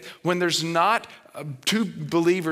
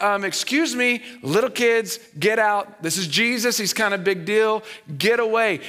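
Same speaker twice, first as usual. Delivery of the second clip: high, loud, snooty shooing; bossy disciples; 7 semitones higher, 4 dB louder than usual. Retold or imitated. Disciples turning children away from Jesus, snooty and loud. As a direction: shoo the kids off like a self-important gatekeeper. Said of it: "They're like".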